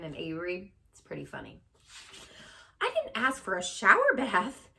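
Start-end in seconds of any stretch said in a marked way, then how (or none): 2.8-4.7 higher, louder farmer voice; wry complaint. Acted. Soaked farmer complains to the laughing crowd, wry. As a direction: complain dryly, dripping wet. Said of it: "said Mister Zuckerman".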